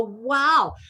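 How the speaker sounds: big drawn-out "wow"; amazed wow. Acted. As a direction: say it in laughing wonder. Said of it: "just laugh and go".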